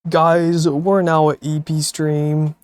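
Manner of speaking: loud, slow call to viewers; calling out to chat. Real, not acted. Streamer loudly announcing to chat, slowed.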